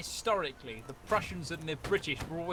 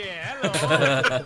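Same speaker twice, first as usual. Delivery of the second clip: put-on Yorkshire accent; 5 semitones lower, 8 dB louder than usual. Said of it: "I've gone to Yorkshire".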